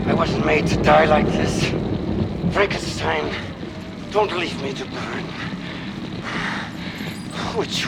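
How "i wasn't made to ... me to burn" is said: high, anguished begging; desperate pleading. Acted. Monster begging Frankenstein not to let him burn, desperate pleading. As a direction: plead loudly, then let it weaken.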